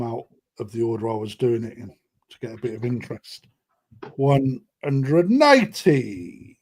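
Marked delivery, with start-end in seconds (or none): 4.2-6.6 drawn-out, slow announcer call; long, swooping score call; darts-caller announcement. Pretend. Darts caller style announcement of winning price.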